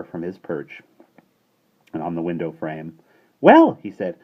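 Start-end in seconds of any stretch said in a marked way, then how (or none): 3.4-3.8 much higher, loud scolding bird; shrill starling voice. A narrator's reading. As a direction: squawk it like a cheeky starling. Starling character voice.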